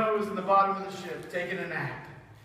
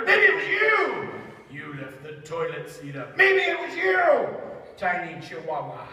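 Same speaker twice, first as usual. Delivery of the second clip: nosy sailor pointing fingers; accusing sailors. Acted. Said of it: "trying to figure out who it was".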